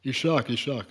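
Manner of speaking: "Ishaq" in two syllables, opening on ee; corrected pronunciation. Shown as a demonstration. Reader correcting listeners on the historian's name, "Ishaq" pronounced ee-SHAK. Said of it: "Not Shach, not Shach".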